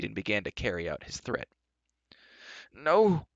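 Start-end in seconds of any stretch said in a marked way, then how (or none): 2.7-3.3 squealing. Acted. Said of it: "squealed Gwistle".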